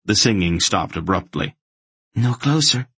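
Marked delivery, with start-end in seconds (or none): 2.2-2.9 high-pitched warning from a cornered woman; woman's higher voice, sharply on guard. A narrator's reading. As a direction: warn them off sharply, pitched up. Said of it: "the unseen woman warned sharply".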